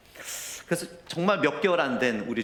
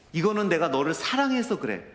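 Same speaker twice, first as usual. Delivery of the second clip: higher, strained, 사랑해서 pressed hard and falling; tearful plea; 5 semitones higher than usual. Retold or imitated. Father tells his crying son he loves him, tearful. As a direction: push 사랑해서 out through tears. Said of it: "제가 눈물을 흘리면서".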